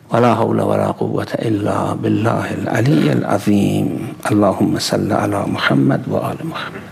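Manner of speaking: rapid closing prayer in Arabic; Arabic invocation. Real, not acted. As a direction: recite the closing formula quickly.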